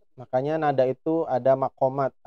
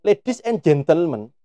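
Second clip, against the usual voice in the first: Javanese-accented English; 3 semitones higher, 3 dB louder, slower than usual. Shown as a demonstration. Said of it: "dialeknya Jawa nggak enak".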